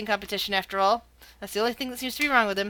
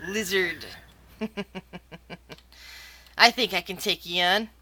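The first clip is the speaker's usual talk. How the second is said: lower, lightly voiced half-orc challenger; grinning half-orc; 5 semitones lower, 4 dB quieter than usual. Half-orc to lizard opponent, low taunting voice. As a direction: sneer it low with a chuckle. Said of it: "He grins toothily".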